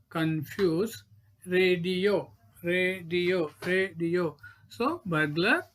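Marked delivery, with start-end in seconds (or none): 1.5-4.4 "radio" stretched as ray-dio; split into syllables. Shown as a demonstration. Teacher counting syllables, "radio" broken up deliberately. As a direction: say each "radio" in measured, separated beats. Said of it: "Disyllabic word".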